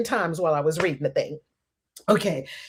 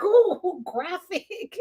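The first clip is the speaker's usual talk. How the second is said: mock disgust; 8 semitones higher, much slower than usual. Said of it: "I'm like".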